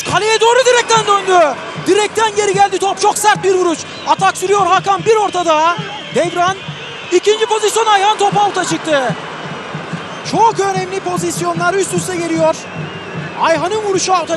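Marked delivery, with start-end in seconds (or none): 0.0-9.1 excited commentary. Real, not acted. Near miss hits the post.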